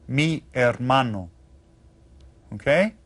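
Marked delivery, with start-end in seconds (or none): 0.1-1.3 hermano with no h sound, starting on the vowel; silent H. Shown as a demonstration. Teacher repeating the phrase for learners, hermano with silent H. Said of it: "is silent when we read that".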